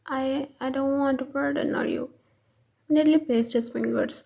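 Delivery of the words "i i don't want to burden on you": stuttering. Acted.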